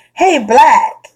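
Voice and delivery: high, loud street catcall; mock catcall; imitating a catcall. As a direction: call out to her like a guy on the street. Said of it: "If a guy say".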